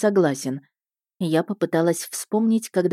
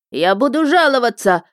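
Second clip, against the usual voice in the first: high, loud squealing shout; shrill yell; 6 semitones higher, 5 dB louder than usual. Acted. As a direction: squeal out the threat. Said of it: "визгливо закричал он".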